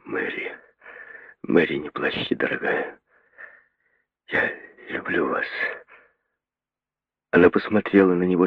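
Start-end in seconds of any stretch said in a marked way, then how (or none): 0.1-5.5 hushed, tender whisper; quiet voice. A narrator's reading. The doctor confessing love to Mary, hushed whisper. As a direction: confess it softly. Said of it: "говоря тихим голосом".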